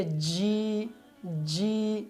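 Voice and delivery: جی with a hard ch edge; too sharp. Shown as a demonstration. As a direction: show the error: جی turning toward چ. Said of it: "تیزی سے نکالتے ہیں".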